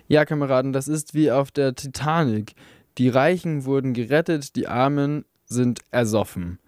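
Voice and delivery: lightly voiced miner orator, indignant; rally fellow miners, bitter and rising; a hint of an angry workers' speaker; rousing union speech. Speech continues.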